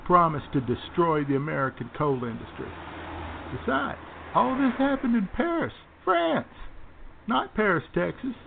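lightly voiced blustering right-wing radio host; Lush Bimbo. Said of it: "our very own, uh, Lush Bimbo".

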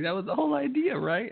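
put-on high cutesy girl voice; coy sweet girlfriend imitation.

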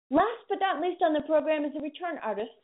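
slipping into a Boston accent; Boston vowels creeping into the words. Real, not acted. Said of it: "That was my Boston accent slipping in there".

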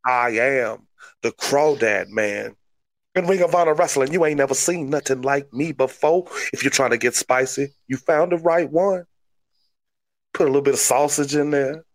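Cajun wrestling promo voice; hammed-up Cajun boast; crawdad man. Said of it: "That's my new gimmick".

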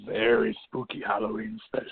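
losing voice, slipping into a whisper; hoarse voice fading to a whisper; voice giving out. Real, not acted. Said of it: "I sound like I'm losing my voice".

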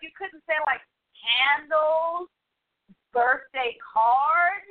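teasing supervisor. Retold or imitated. Supervisor teasing her mistake.

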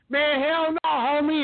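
tough coworker refusing. Retold or imitated. Coworker Tim blocks a line-cutter at the store, mock tough shout. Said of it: "and he goes".

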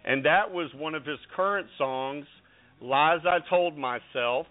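announcer-style build-up, drawn out on key names; radio host introduction. Real, not acted. Radio host introducing a country star to listeners, announcer style. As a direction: present the guest like a star act.

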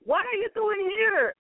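put-on high, sharp challenge from an angry older brother; indignant brother scolding. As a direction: confront him as the scornful elder brother. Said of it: "was angry at him and said".

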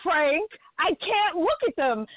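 lightly imitated panic; mild mock panic. Telling the server she cannot look, pleading.

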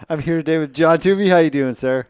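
loud, quick announcer patter; show host voice. Pretend. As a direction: greet the panel like a TV host. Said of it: "the host hosts".

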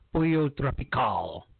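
Pollo Tropical with a light Spanish accent, rolled and open vowels. Shown as a demonstration. Imitating a politically correct speaker, Spanish accent on Pollo Tropical. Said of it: "if I were a politically correct person".

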